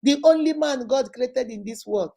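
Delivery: put-on butter up the boyfriend with pet names; gushing praise. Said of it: "they will praise you".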